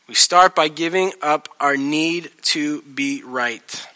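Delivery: slowed right down, each word weighed; slow emphatic. Shown as a demonstration. Pastor repeats his main point to the congregation, slow and weighty. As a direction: spell it out slowly to land it.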